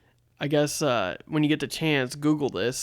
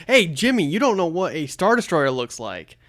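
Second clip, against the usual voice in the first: higher, louder teasing jab; mock taunt; 3 semitones higher, 5 dB louder than usual. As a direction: needle him like a smug fan. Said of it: "I wasn't saying".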